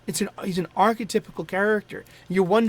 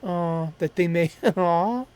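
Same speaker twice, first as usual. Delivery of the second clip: getting emotional; 3 dB louder, slower than usual. Real, not acted. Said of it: "I'm getting a little emotional".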